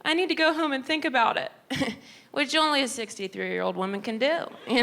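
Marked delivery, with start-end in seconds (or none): 0.0-1.5 high, fast mom voice; imitating her fussing mom. Mom telling the clerk she'll think it over.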